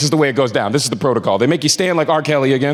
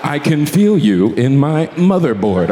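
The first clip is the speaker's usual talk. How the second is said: sultry robot; 4 semitones lower, slower than usual. Retold or imitated. Siri quoted sultry.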